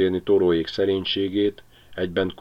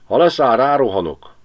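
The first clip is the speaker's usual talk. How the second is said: a dog's growled threat, higher and louder; growling dog; 6 semitones higher, 7 dB louder than usual. A narrator's reading. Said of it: "morgott a kutya". (morgó, fenyegető kutya)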